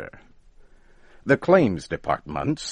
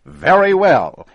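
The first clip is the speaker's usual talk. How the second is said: loud, much higher furious shout; angry shout; 12 semitones higher, 12 dB louder than usual. Acted. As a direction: explode with the words. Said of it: "he shouted".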